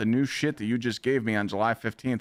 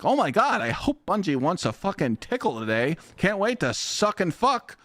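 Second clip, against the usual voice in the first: high, gushing fanboy parody; squealing mock glazer voice; 7 semitones higher than usual. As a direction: gush like a brown-nosing creator. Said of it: "making clips like".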